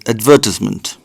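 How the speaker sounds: advertisement stressed ad-VER-tis-ment; British pronunciation. Shown as a demonstration. Showing viewers the British advertisement, British pron. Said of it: "British people call this".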